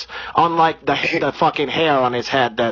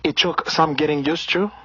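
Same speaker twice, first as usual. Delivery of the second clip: put-on Brazilian accent. Comedian holding a put-on Brazilian accent.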